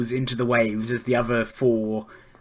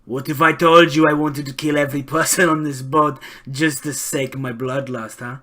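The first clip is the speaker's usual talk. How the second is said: slow, lightly voiced menace; drawn-out taunt, sinking at the ends; pirate captain. Pirate captain taunts before his men, lightly voiced menace. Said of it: "pats one of his men on the back and says".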